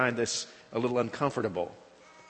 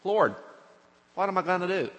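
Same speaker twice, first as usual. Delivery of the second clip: desperate plea; 5 semitones higher, faster than usual. Acted. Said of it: "Moses goes to God and he says".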